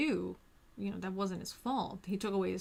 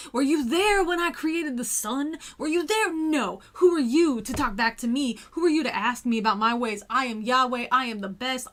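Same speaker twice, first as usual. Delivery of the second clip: louder, higher hammed-up divine thunder; booming mock god; 4 semitones higher, 8 dB louder than usual. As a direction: lord it over him at full volume.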